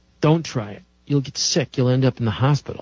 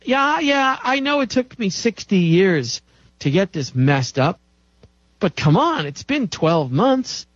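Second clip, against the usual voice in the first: impatient self-talk; 3 semitones higher than usual. Acted. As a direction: play someone arguing back, fed up with waiting. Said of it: "That's what you tell yourself".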